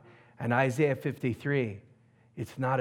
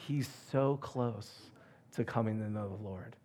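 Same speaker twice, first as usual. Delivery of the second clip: earnest news; 2 semitones lower, 7 dB quieter than usual. Retold or imitated. Caller's earnest retold news.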